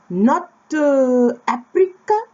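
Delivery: high, loud incredulous mock question; surprised old man. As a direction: shoot Africa? up in disbelief. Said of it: "he goes".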